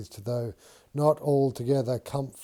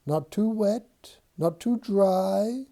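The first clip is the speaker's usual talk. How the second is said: squeaky little voice, slower; high-pitched shoe voice; 7 semitones higher than usual. Acted. George voicing Mary's shoe for her, high-pitched. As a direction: pipe it up high like a tiny shoe. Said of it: "in a high-pitched voice".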